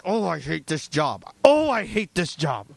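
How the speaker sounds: acted disgruntled moan; mock grumble, stressed on each repeat; angry griping. Worker going in to hated job, acted griping. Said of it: "humiliated and angry".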